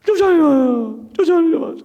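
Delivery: very high, loud, slurred acted crying; imitated wailing sister. Sister begging mother not to evict, imitated unintelligible wailing. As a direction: wail the plea until the words blur. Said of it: "그렇게 우는데".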